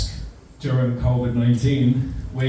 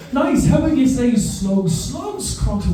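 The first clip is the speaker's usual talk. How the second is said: drama teacher coaching; 9 semitones higher than usual. Retold or imitated.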